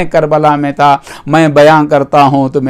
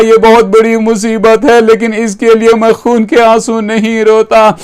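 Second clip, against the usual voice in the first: higher, mildly weeping lament; tearful answer; 4 semitones higher than usual. Retold or imitated. Preacher voicing the Imam's reply, mildly tearful. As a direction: plead it with a touch of tears. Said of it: "امام نے روتے ہوئے کہا".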